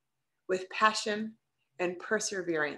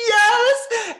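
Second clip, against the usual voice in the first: emphatic yes; 13 semitones higher, 10 dB louder than usual. Retold or imitated. Emphatic answer to trainer.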